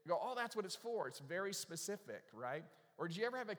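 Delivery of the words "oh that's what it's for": higher, mock moment of discovery; dawning realization. Preacher voicing someone finally understanding a tool, dawning realization. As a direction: act out suddenly getting it.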